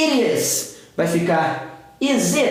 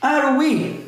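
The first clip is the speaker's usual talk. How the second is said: "Are we?" pitched up as a curious question; question intonation; 5 semitones higher than usual. Shown as a demonstration. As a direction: model "Are we?" for learners, high questioning tune. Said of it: "Dá essa entonação de pergunta". ("Are we?" em tom de pergunta)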